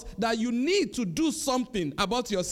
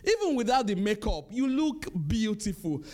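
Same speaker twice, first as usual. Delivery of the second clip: tender. Retold or imitated. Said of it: "I say to them every morning".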